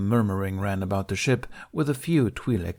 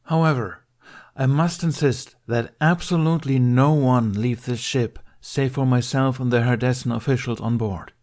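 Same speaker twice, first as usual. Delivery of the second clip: crisp, louder, higher stern warning; enunciated; 5 semitones higher, 5 dB louder than usual. Acted. Ben warns refugees to stay aboard, enunciated. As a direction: spell out every word of the order. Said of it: "enunciated the most vital communique".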